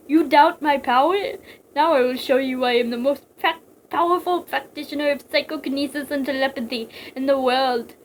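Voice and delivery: loud, grandiose villain proclamation; theatrical megalomaniac; boastful psychic villain. Acted. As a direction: declare your powers with pomp.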